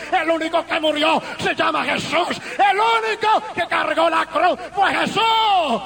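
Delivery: urgent testimony sermon voice; impassioned preaching. Real, not acted. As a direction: preach it forcefully to the congregation. Preaches testimony at full force. (predicación apasionada y urgente)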